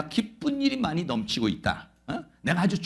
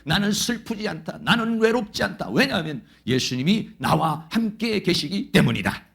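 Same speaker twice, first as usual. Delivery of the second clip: declaration prayer; 3 semitones higher than usual. Shown as a demonstration. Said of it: "그렇게 기도해야 돼요".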